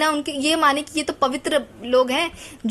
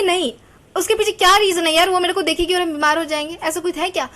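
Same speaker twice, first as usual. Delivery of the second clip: higher-pitched, challenging retort; mock-protest, pitched up and questioning; indignant retort; 4 semitones higher, 4 dB louder than usual. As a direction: imitate people pushing back at superstition. People challenging old superstition.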